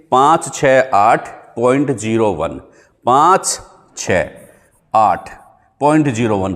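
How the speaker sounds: slow, spaced-out digits to memorise; slow digit drill. Shown as a demonstration. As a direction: count the digits out slowly so they stick. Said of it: "याद रख लेंगे". (रटवाने के लिए धीरे-धीरे अंक गिनाओ)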